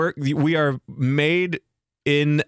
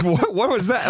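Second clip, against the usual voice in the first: higher, puzzled what; baffled what was that, lightly mocked; retold bafflement; 6 semitones higher than usual. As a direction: ask in mock confusion. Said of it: "And I'm like".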